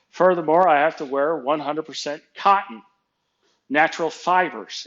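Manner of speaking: lightly acted lecture to a boss; emphatic rebuttal.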